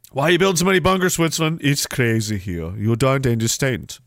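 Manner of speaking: lightly put-on Swiss accent, slowing down; attempted Swiss accent. Host mocking Switzerland's bunkers, rough Swiss accent. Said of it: "How do you do a Swiss accent?".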